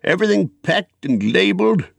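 high-pitched eager check; eager question. Acted. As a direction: ask keenly, ready to leave. Bilbo checks before departure.

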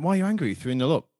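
puzzled wife. Retold or imitated. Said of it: "she went".

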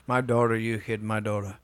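lightly imitated stand-up comic; a hint of an old-school comedian griping about family; Rodney Dangerfield. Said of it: "Rodney Dangerfield".

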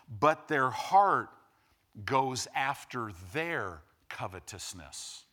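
measured preaching read, slowing on the last words; scripture reading. Acted. Pastor reading scripture to his church, measured and weighty. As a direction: read the verse to the congregation, leaning on each line.

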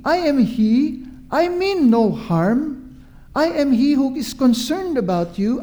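lightly voiced reassuring Jesus. Jesus telling frightened disciples who he is, earnest reassurance. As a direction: build assurance through each repeated phrase.

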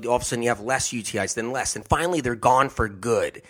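ordinary talk

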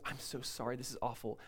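soft, low imitated condolence; sympathetic. Imagined priest consoles Hannah, sympathetic. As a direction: quietly act out commiseration. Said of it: "he sympathizes with her".

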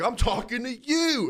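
high slow insisting; hammed-up pointed insistence; mock insistence. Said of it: "He's like".

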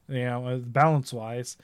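breathy whispered aside. Real, not acted. Muttered aside about game balance.

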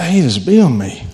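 relaxed, friendly greeting to the bee; calm delight. Retold or imitated. Preacher showing his new calm welcome to a bee, light and friendly. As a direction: say it like you're glad the bee came. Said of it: "But I was like".

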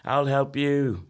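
hammed-up chain-smoker plea; raspy smoker impression. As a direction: imitate a heavy smoker begging kids to come along. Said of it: "it sounded like Lindsay Lohan smokes four packs".

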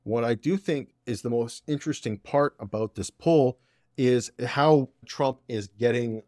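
ordinary delivery

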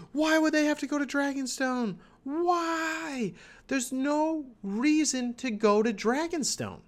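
high, strained cries of why; exasperated outcry. Real, not acted. Podcaster protesting the Dragonstone plan, high exasperated outcry.

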